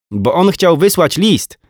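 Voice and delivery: put-on high, slow careful little boy; small boy patiently explaining the cartoon to his mum; child voice. A narrator's reading. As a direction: explain it like a small kid, slowly.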